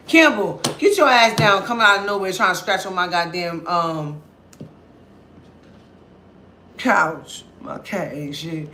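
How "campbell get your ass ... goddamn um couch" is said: loud scolding yell; yelling at cat. Real, not acted. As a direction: shout at the cat.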